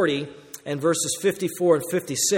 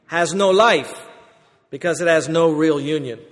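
a badly done British accent, louder and measured; attempted British accent; 4 dB louder than usual. Preacher quoting a great preacher to the congregation, attempted British accent. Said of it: "My British accent was terrible".

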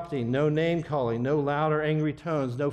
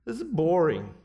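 mock a bored little kid; 2 semitones higher than usual. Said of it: "I hear that from the little kids".

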